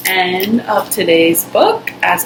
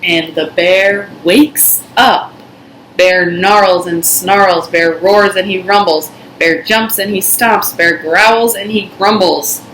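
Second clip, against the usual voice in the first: put-on reading to children; 3 dB louder than usual. A narrator's reading. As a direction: read it like a bedtime story for little ones. Reading picture book aloud.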